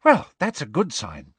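mildly hearty reassurance. Acted. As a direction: cheer on a nervous friend. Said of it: "said Hermione heartily".

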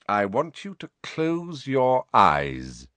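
slow cold command; cold Snape voice. Acted. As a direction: order it slowly and coldly.

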